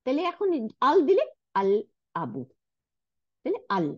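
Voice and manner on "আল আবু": "আল আবু" with a clear L; "আল আবু" with nothing doubled; sounded L. Shown as a demonstration. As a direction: pronounce the L of "আল" before "আবু". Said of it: "লামের উচ্চারণ করলাম".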